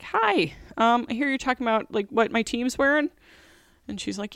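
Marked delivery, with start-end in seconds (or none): 0.0-3.1 sugary mock greeting, pitched higher; fake friendly greeting. Boss greets the gossiping employee with mock sweetness. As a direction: sing out the hi sweetly, then ease down. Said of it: "and I'm like".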